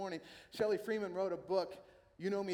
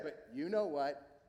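insinuating accuser; 3 semitones lower, slower than usual. Acted. Accuser's repeated low catchphrase.

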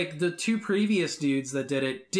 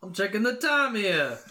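put-on half-hearted New York accent, a little raised; attempted New York accent; 5 semitones higher than usual. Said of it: "I can't do New York".

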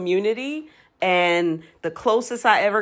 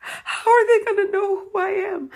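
high, breathy whispered aside; secretive self-talk whisper. Real, not acted. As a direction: whisper the worry to yourself.

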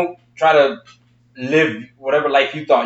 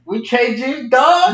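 mock Chinese accent; 8 semitones higher, much slower than usual. Mock Chinese deal skit.

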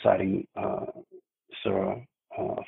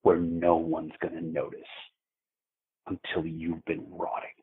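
slow menacing monster; 3 semitones lower, slower than usual. Retold or imitated. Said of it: "it's the way he said that".

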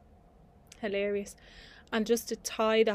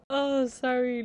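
laughing; 3 semitones higher, 5 dB louder than usual. Real, not acted. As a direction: still giggling while apologising. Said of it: "let me compose myself".

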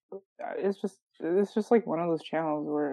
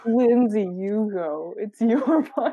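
laughing imitation; 4 semitones higher, 4 dB louder, slower than usual. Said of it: "you were like".

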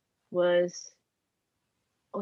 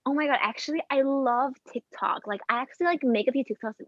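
mocking contestant; 2 semitones higher, 3 dB quieter than usual. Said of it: "said, like".

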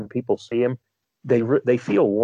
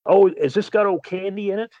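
dad's delighted question; 10 semitones higher, 4 dB louder than usual. Retold or imitated. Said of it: "he's like".

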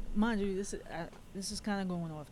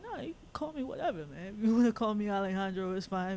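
imitated casual don't-mind reply; quoted easygoing client; 4 dB louder, faster than usual. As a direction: wave it off in a fast rush, imitating him. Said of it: "and he was like".

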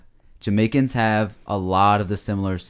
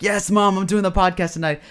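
higher put-upon "yes, mom"; a much higher mock reply to mom; imitating herself answering mom; 7 semitones higher than usual. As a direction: answer mom like an exasperated kid. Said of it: "I was like".

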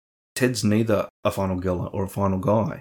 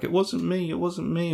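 protesting prankster; 9 semitones higher than usual. Retold or imitated. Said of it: "And they're like".

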